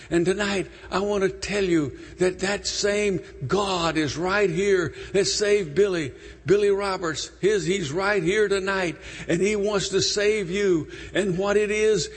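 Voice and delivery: earnest altar-call preaching; preaching appeal. Acted. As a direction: press the invitation on the congregation.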